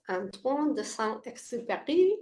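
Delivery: put-on light French accent on the name; a playful hint of French accent. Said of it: "That's my French accent for you".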